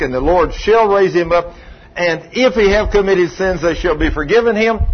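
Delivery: firm, measured proclamation of a verse; scripture recitation. Real, not acted. Preacher argues from Jesus's promise to the sick, firm scripture recitation. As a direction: recite it as settled authority.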